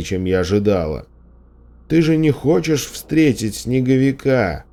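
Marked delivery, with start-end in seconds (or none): 1.9-4.7 higher, urgent calling voice; shouted warning. A narrator's reading. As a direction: call out the warning, moderate volume. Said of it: "прокричал он".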